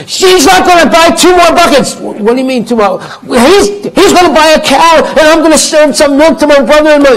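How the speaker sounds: high, loud heated complaint; angry quarrel. Acted. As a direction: blurt the grievance at full volume. Couple shouting to the neighbor.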